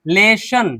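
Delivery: लेशन as le-shan, short final vowel; "an" ending. Shown as a demonstration. Teacher models for learners, लेशन ending in "an". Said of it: "अन पढ़ रहे हैं".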